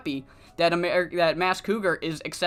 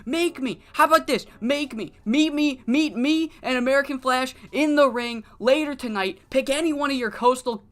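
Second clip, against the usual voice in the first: higher, heated taunt; taunting challenge; 4 semitones higher than usual. Retold or imitated. Frankie fires back at Cougar, heated taunt. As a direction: throw the challenge back, fired up.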